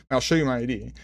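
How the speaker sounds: mildly annoyed retort, retold; clearly annoyed. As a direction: offer it with a touch of irritation. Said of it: "I was clearly annoyed".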